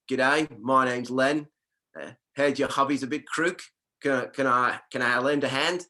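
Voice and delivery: put-on lightly done Aussie accent, friendly neighbour at the door; a cheerful Australian bloke offering help, only lightly put on; a touch of broad Australian twang. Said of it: "I'm gonna try the accent".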